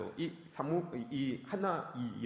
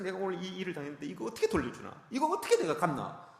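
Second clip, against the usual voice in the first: higher-pitched, worked-up mock brooding; 4 semitones higher than usual. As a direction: act out fretting over how to get even. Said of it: "이것 때문에 밤잠 못 이루는". (앙갚음을 고민하며 애태우는 흉내)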